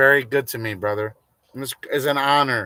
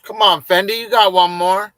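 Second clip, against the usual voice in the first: excited urging; 7 semitones higher, 9 dB louder than usual. Real, not acted. Urging friend to donate again.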